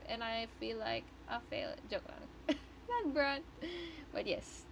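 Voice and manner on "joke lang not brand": laughing. Real, not acted. Laughing off calling herself a failure.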